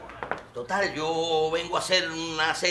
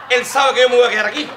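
laughing; 7 semitones higher, 9 dB louder, faster than usual. Acted. Loud laughing claim.

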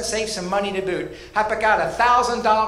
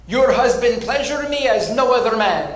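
a hint of a Romanian accent, lightly done; Eastern European accent. Gift shop lady praising the husband's act, light Eastern European accent. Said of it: "in that beautiful Eastern European accent sounded like this".

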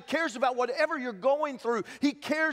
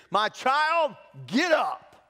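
put-on raised, louder command to a child; loud call; 4 semitones higher, 4 dB louder, much slower than usual. A narrator's reading. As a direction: call her up so the next room hears. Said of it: "said in a loud voice".

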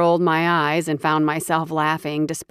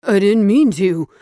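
higher, louder terrified begging; shrieking, pleading; 5 semitones higher, 5 dB louder than usual. Acted. Cowering thief begs the bear shifter for mercy, shrieking. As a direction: plead for your life, voice up high. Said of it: "Shrieking and yelping".

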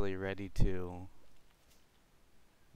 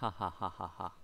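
laughing; 6 dB quieter, faster than usual. Real, not acted. Laughing at rare hat.

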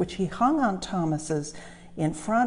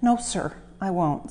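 sadly. Acted. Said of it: "said Thomas sadly".

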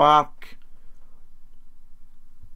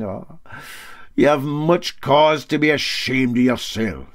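Para Handy, tolerant scorn; 4 semitones higher, 4 dB louder than usual. Acted. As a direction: pity him, then drop the news. Para Handy scolding calmly.

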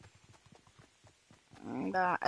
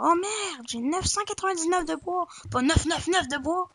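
normal person reacting; 6 semitones higher than usual. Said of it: "quelqu'un de normal dirait genre".

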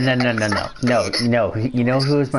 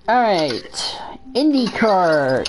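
whispering; 5 semitones higher, much slower than usual. Pretend. Announcing next category.

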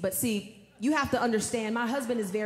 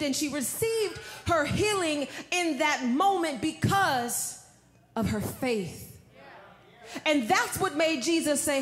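normal talking voice

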